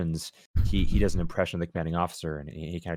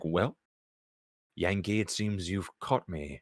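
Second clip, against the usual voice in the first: put-on old gentleman voice; 5 dB quieter, slower than usual. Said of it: "he's like".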